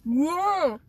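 excited whoa; surprised. Real, not acted. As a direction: blurt it out amazed. Reacts to the bangs story.

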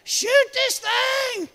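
preacher imitating the congregation hollering. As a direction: whoop then slow, drawn-out pleading shouts. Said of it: "I hear some of you hollering".

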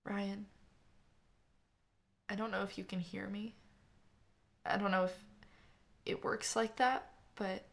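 a sister's hushed, trembling plea to her dead brother; holding back tears. Acted. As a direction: speak to him through a tightening throat. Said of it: "her lips trembled as she fought a frown".

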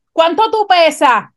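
nurse shouting across the room. Retold or imitated. ER nurse asks patient's weight out loud, mock shouted. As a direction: call it out for everyone to hear. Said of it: "yo oigo a esta enfermera gritando".

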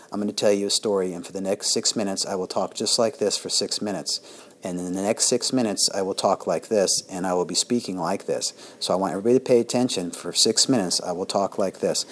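low, flat droning monotone voice. Shown as a demonstration. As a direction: drone on in one tone. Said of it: "you keep the same modulation the entire time you talk like this".

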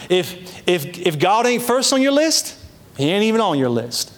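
lightly put-on Southern preacher accent. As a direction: quote an old preacher with a hint of Southern twang. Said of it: "That's the best Southern accent I got".

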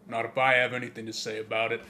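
fast, mock-tough action-hero line; Vin Diesel. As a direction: toss it off like a cocky tough guy. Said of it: "Vin Diesel's like".

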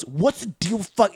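slow, high stand-up setup; Seinfeld impression. Klansman reports on chopsticks, a slow high Seinfeld bit. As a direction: ask it like an observational comic. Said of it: "the Seinfeld comedy".

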